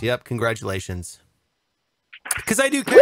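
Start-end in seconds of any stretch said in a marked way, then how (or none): 2.5-3.0 louder, higher insistence; loud declaration. Real, not acted. Comic shouting to the crowd that he cares. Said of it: "declares loudly".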